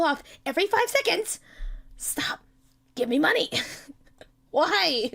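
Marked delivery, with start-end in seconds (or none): 2.0-5.1 whisper. Real, not acted.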